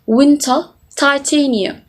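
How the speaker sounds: WINTER and TITANIUM with every T clearly sounded; British crisp T. Shown as a demonstration. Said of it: "T sounds is clearly pronounced".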